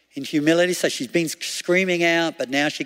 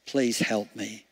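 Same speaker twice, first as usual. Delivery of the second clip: pleading from the heart; 3 semitones lower than usual. Retold or imitated. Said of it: "She cried out from her heart".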